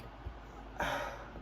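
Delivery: acted heavy breath out; exasperated sigh. Student stuck in a headlock, acted exasperated sigh. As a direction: let out a strained huff.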